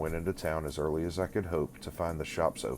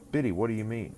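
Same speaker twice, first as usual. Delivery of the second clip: sharp, higher, louder retort; snappish; 6 semitones higher, 4 dB louder than usual. A narrator's reading. Pip snapping at Biddy over a provoking question. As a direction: snap the question back at her. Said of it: "that I said snappishly".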